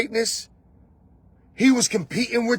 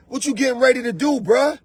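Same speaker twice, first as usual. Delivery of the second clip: challenging shout; 4 semitones higher than usual. Retold or imitated. Confronting, shout heard.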